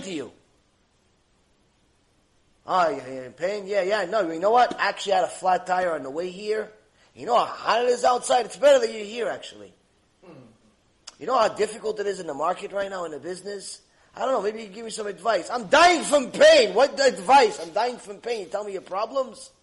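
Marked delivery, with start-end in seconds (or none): 2.7-15.5 loud, whiny visitor dumping his own troubles; self-absorbed visitor. Retold or imitated. Visitor complains to sick patient. 15.5-19.5 loud, fed-up outburst from the hospital bed; mock patient snapping back in pain; exasperated patient.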